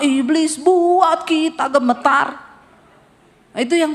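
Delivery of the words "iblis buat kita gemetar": slow, louder reversed chant; mock fearful Christian. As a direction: flip it, now the devil wins. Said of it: "Sampai di rumah". (nada mengejek orang Kristen takut)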